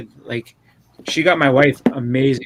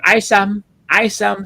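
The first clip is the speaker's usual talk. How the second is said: a hint of a demanding toddler, raised pitch; begging toddler; 4 semitones higher, 4 dB louder, slower than usual. Toddler asking dad for his ice cream, lightly imitated begging. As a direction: lightly imitate a little child's insistent demand.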